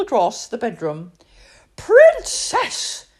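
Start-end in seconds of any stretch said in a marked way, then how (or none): 1.8-3.1 loud stern call of her name; firm call. Acted. Doctor catches princess riding the pram, stern loud call. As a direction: catch her out, loudly and firmly. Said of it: "called a firm voice behind her".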